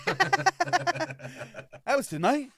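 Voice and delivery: slow, high, drawn-out disbelief; mock surprise. A singer voiced realizing it was tonight, slow mock disbelief. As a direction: stretch it out in fake shock.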